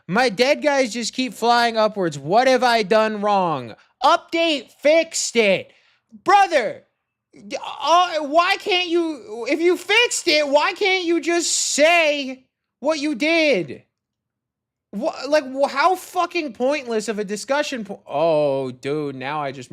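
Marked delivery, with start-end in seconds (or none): 0.1-5.7 higher, louder, sneering parody of the comment; mocking reread. Developer mocking a useless forum comment, loud and sneering. 6.2-17.2 much higher and louder, stretched, near-crying frustration; exasperated whine. Real, not acted. Coder whining at a forum commenter in exasperated disbelief.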